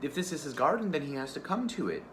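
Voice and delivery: put-on a hurt little girl insisting; girl showing the tiger the ruined garden, distraught; pleading child. Girl pleads about burned garden.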